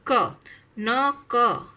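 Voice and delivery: slow letter by letter. Shown as a demonstration. Spelling out letters to join.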